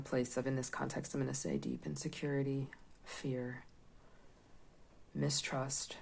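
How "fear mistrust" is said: whispering. Real, not acted. Listing card meanings.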